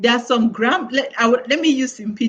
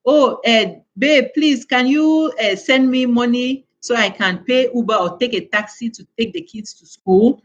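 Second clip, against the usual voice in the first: mock pleading wife; 3 semitones higher than usual. Wife calls her husband for taxi money, mildly pleading. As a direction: wheedle a little, as if asking a favour. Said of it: "You now have to call".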